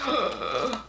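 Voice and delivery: high, laughing gasp toward tears; almost crying with delight; overjoyed near tears. Real, not acted. Seeing the Ravenclaw strainer, overjoyed near tears. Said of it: "gonna cry".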